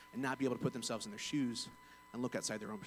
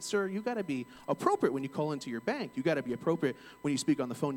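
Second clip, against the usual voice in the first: mildly heated reprimand, raised a little; retold firm telling-off, insistent; worked up; 3 semitones higher, 5 dB louder than usual. Bank agent reprimanding a rude caller, worked up. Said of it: "and I was worked up".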